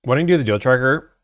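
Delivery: talking with a mouth full. Real, not acted. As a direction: speak around a gummy in the mouth. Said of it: "quit talking with your mouth full".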